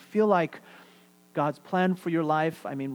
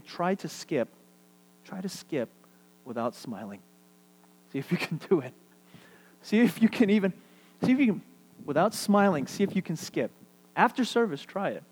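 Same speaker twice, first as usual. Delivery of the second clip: playful challenge; 2 semitones higher than usual. Pretend.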